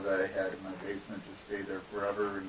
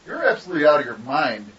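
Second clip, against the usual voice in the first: retold indignant outburst, higher and louder; telling her off; 6 semitones higher, 11 dB louder than usual. Student to intern teacher in front of class, telling her off. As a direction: let the intern teacher have it. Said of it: "did I tell her off".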